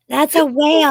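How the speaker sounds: loud, high whale moan; whale call. Shown as a demonstration. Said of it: "Thanks for the demonstration".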